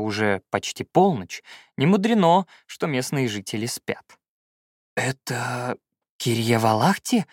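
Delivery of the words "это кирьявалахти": slow, mildly astonished question; amazed. Acted. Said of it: "изумлённо спросил я".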